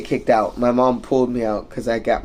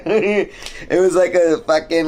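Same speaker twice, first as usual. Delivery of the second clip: laughing; 5 semitones higher than usual. Real, not acted. Laughing recalling eyebrow piercing.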